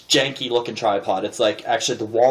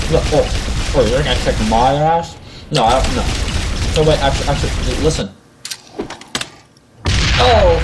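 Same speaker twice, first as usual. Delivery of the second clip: louder, taunting gamer voice; online gamer trash talk; 3 dB louder than usual. Acted. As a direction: jeer at a kid over the headset. Acts trash talk while gaming.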